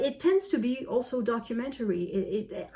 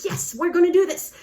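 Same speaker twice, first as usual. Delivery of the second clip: high, loud gung-ho cheer; hammed-up burst of enthusiasm; mock excited; 9 semitones higher, 8 dB louder than usual. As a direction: pump it up like a rallying cry. Enthusiastic announcement in March.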